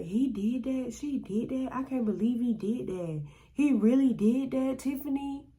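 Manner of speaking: high, soft, incredulous questions; the boy's sisters in hammed-up disbelief; mock disbelief. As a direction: act stunned and unwilling to believe it. Friends voiced in disbelief.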